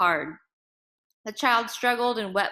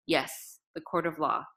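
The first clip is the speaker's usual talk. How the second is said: forced calm; 3 semitones lower, 3 dB quieter than usual. A narrator's reading. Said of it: "he said as calmly as he could".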